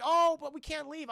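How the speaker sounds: high-pitched protesting mother; imitated motherly protest; fretting mom. Mom protests leaving, acted.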